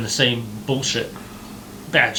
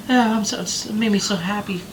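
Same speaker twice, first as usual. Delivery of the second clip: mock gushing; 6 semitones higher than usual. Mocking gushing teacher.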